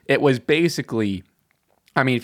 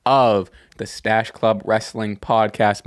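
slow, easy, settled welcome; calm energy; slower than usual. Shown as a demonstration. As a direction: ease into the show calmly. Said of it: "come in with, like, a, a calm energy".

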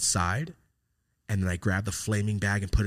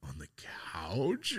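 hushed whisper; 2 semitones lower, 8 dB quieter, much slower than usual. Retold or imitated. Sneaking weed at home.

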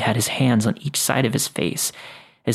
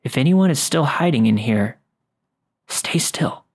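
hushed, firm warning; stern whisper; 3 semitones higher than usual. A narrator's reading. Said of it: "Ben sternly whispered".

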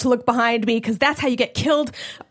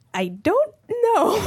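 scared; 9 semitones higher, slower than usual. Retold or imitated. Scared answer to murder question.

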